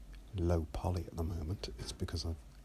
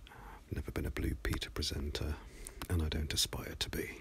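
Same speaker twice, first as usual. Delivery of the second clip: whispering. Real, not acted. Soft-spoken aside about his voice.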